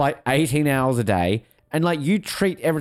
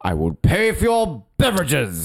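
slow put-on voice. Mock offer, slow, odd voice.

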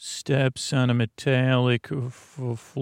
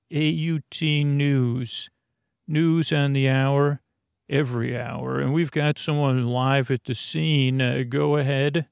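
brisk anchor voice, hitting the station name; news anchor read. Acted. Anchor handing off to the reporter on the scene, newsreader voice. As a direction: sell the top of the hour.

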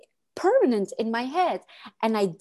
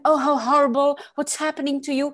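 a touch of theatrical pity; mild mock gasp of horror; mock dramatic visitor; 3 semitones higher than usual. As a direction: lightly ham up the shocked sympathizer. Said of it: "you see how I'm going?".

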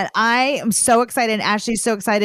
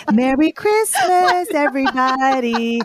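jolly; 5 semitones higher than usual. Pretend. Livening up the show with holiday greetings, jolly. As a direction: call it out with put-on jolliness. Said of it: "get some jolliness in here".

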